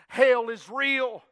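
loud, drawn-out declaration; preached warning. Retold or imitated. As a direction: stretch each word out forcefully. Preacher voices the voice's warning.

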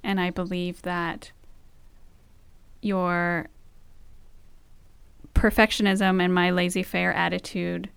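heartfelt vows. Real, not acted. Reciting wedding-style vows.

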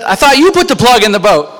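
high, loud protest; indignant mock yell. Jimmy answers his friend about the plug, indignant yell. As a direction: imitate a panicked buddy throwing the blame back. Retold friend throws blame back.

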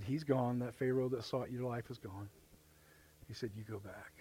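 low, soft divine reassurance; quiet command. Retold or imitated. God telling Moses it is safe to return, hushed. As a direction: speak softly and low, with calm authority.

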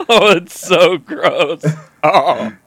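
slow, loud, laughing gross-out; real laughter through the words; laughing disgust. Real, not acted.

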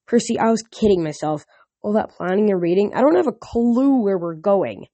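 put-on worried girl confessing to Percy; lightly voiced Annabeth, worried. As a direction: admit you have no clue, a little helpless. Annabeth admits she is lost.

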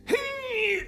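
very high-pitched "hee"; high creature squeal. Acted. Game master voices a creature's noise.

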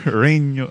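"Reno" with a plain American R; "Reno", L syllable dropped, English R; unrolled R. Shown as a demonstration. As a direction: say "Reno" without rolling the R. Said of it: "I can't roll my R's".

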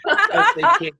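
laughing through the words, tickled; giggly, amused reply. Real, not acted. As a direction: chuckle as you answer. Laughing at Sarah's retelling.

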